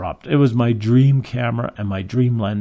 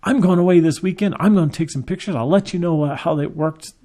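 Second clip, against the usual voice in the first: higher, excited imitation of a delighted man; retold giddy eagerness, pitched up; ecstatic customer; 5 semitones higher than usual. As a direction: imitate someone buzzing with happy excitement. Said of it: "He was ecstatic".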